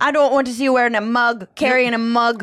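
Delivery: high, quick amateur Irish; playful Irish accent. Acted. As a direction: rattle off a fussy Irish complaint. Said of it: "so to do the accent".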